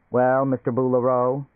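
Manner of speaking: "Boulereau" stressed on the last syllable, -REAU; the suitcase mispronouncing "Boulereau" with final stress; wrong stress. A narrator's reading. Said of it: "Again the faulty pronunciation".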